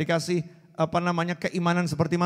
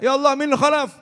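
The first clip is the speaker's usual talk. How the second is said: loud, higher cry to Allah; shouting prayer; 8 semitones higher, 7 dB louder than usual. Retold or imitated. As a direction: call out ya Allah at full voice. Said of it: "Sampai teriak".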